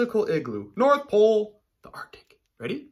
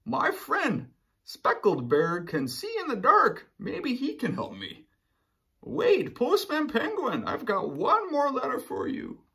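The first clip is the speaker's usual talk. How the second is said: higher, louder bear voice calling out; Polar Bear calling out; 9 semitones higher, 5 dB louder than usual. Acted. Polar Bear calling to Postman Penguin, high and loud. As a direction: call after the postman penguin.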